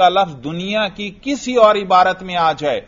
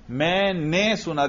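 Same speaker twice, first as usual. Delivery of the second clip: slow, drawn-out نے set apart; stress on نے; 5 dB quieter, slower than usual. Shown as a demonstration. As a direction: draw out نے in a slow, softer phrase. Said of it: "دیکھو یہ نے ہی بتلا رہا ہے".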